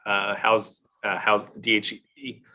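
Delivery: throat catching, voice straining; getting choked up mid-sentence. Real, not acted. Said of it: "I got all choked up".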